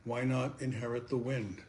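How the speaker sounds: questioning verse, firm openings and settling endings; poem recitation. Acted. Poet asks listeners "do you believe" in verse, measured recitation. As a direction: recite each question with deliberate pauses.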